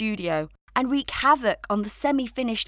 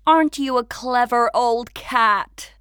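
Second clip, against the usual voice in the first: Emma; 4 semitones higher, 7 dB louder than usual. A narrator's reading. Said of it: "said Emma".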